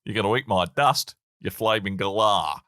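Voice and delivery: put-on Australian accent, slowing at the end. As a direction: do a mock Aussie taunt. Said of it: "I can do that accent".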